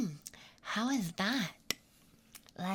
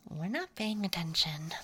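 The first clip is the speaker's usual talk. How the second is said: whispering. Acted. Whispering throughout.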